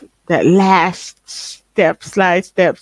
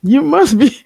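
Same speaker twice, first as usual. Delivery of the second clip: mock taunt. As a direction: needle him, pitched up and mocking. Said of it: "And I was like".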